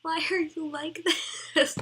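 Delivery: mock despair at the parents; laughing, incredulous complaint; exasperated why. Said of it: "and I'm like".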